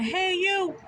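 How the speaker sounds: lightly voiced old man hailing her; old man calling out. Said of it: "he's probably in his seventies or eighties".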